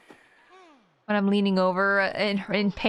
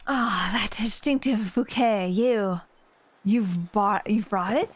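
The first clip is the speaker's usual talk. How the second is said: put-on slow, savoring old seadog voice; a lightly voiced old sailor relishing a treat; gently hammed-up old sailor, slow and fond. Reading old sailor's game lines.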